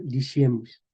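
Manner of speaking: Diciemos as di-SHIE-mos; medieval pronunciation. Shown as a demonstration. Teacher repeating an example, medieval sh pronunciation. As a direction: put a sh in Diciemos. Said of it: "el sonido sh".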